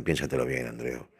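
low, soft cautious warning; hushed warning friends. Retold or imitated. Close friends warning Andreu not to risk it, hushed. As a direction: warn him quietly, like a confidant. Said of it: "amigos íntimos me dicen".

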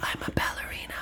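fast breathy whisper; mock whisper. Mocking the heroine's lines to Meg, in a fast mock whisper. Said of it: "she's whispering".

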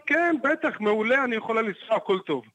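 high, sing-song forced cheer, imitating her; mock-sweet as if nothing happened; grinning, falsely bright reassurance; fake cheerful Joker grin. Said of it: "נותנת לי חיוך כמו של הג'וקר".

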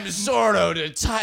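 put-on loud, hammy Zorro accent; Spanish accent. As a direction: boom it out like a swashbuckling Zorro. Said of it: "He's like".

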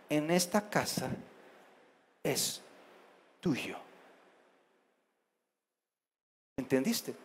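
hushed, measured, with long pauses; calm, mature parent. Acted. Parent tells child nothing in the house is theirs, quietly firm. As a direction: lay down the rule softly, word by word. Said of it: "no enojados, que vean la madurez".

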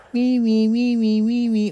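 high squeaky puppy whines; baby wolf whimpers. Acted. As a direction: whimper like tiny wolf cubs. Wolf babies whinging and crying.

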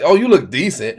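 understated "oh, you look decent"; casual compliment, "decent" left hanging. Shown as a demonstration. Man showing co-host his own delivery, offhand. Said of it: "Instead of just delivering it the way she delivered it".

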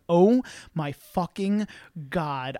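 slow, word-by-word disbelief; acted slow dawning horror; retold stunned horror. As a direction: draw each word out in mock shock. Retold shock at the mirror.

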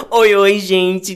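slow, seductive drawn-out greeting. Shown as a demonstration. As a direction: purr the "Oi, oi" slowly to seduce. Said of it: "oi, oi mais sedutor".

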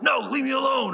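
high-pitched acted protest; mock protest. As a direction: imitate a friend pleading to be left alone. Friend resists being called out.

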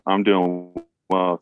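muffled through a mask; muffled by mask and beard; through a face mask. Real, not acted. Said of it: "he's talking through a mask and a giant beard".

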